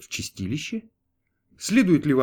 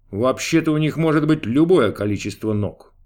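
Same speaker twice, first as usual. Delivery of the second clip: grumbling; 5 dB louder than usual. A narrator's reading. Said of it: "проворчал Бог".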